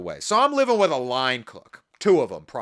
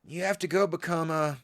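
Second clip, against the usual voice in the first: Sykkuno voice; 4 dB quieter than usual. Acted. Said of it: "I can do the Sykkuno voice".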